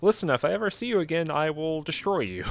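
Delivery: fiend voice. Retold or imitated.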